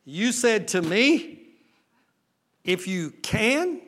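Jesus throwing the doubt back at the father, slow; slow incredulous echo. Acted. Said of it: "Jesus looked at the man and said".

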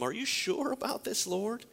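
high, anxious pleading to God; a doubting disciple begging; Ananias doubting. Acted. Preacher voicing Ananias doubting God.

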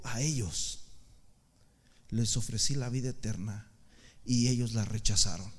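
very low, measured heavenly voice; deep, deliberate divine pronouncement; voice of God. Retold or imitated. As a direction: speak low and solemn, as God from the sky. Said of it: "escuché una voz preciosa, una voz de estruendo en el cielo".

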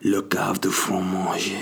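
slow corrected French "Le cave de fromage"; French pronunciation. Shown as a demonstration. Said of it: "No, de manger, no".

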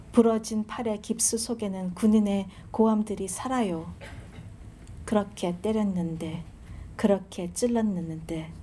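measured, solemn reading of a Korean poem; poetry reading. Acted. Reading her Gwangju poem aloud to the audience, solemn recital.

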